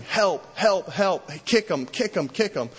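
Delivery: mock frantic yelling at the friends; retold yelling. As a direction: yell help, then urge kick him. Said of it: "he's yelling".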